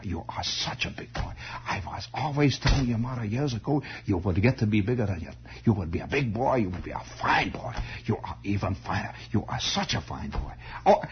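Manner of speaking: lightly voiced German-accented old uncle; vague German accent. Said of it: "they all had this vague German accent".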